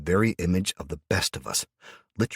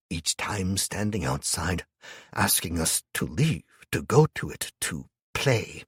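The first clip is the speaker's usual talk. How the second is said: slow, hushed storyteller; hushed old imam; slower than usual. Acted. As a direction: tell it slowly, as a haunted confession. Imam tells grim tale, hushed.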